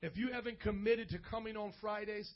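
measured, subdued urging with pauses; pastoral altar appeal. Real, not acted. Pastor asking bowed heads to choose a church, subdued appeal. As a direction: gently press them toward a decision.

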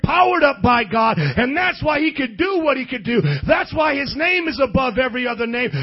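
loud, driving sermon voice; preaching at full force. Real, not acted. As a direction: preach it hard to fire them up.

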